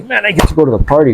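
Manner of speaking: quick, upbeat "Man, I get to go to the party"; cheerful eagerness. Shown as a demonstration. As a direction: sound glad to be going. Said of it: "that's what you say".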